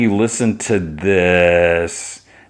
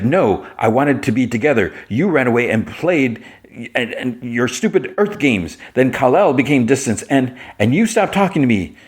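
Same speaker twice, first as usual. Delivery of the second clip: mildly aggrieved acted complaint, pitched up; hurt reproach; 4 semitones higher than usual. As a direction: play a touch of wounded accusation. Kara reproaches Jimmy in quarrel.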